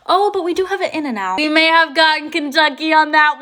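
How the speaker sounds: high excited whisper; conspiratorial whispered brag; playful whisper. Real, not acted. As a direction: share it like a secret boast. Secret brag about In-N-Out.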